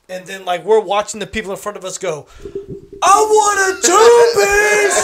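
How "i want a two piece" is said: full-voiced high, drawn-out yell; screaming drive-thru order. Customer yelling a drive-thru order over loud bass, screaming. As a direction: holler the order slowly over blasting bass. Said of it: "They're screaming into the shit".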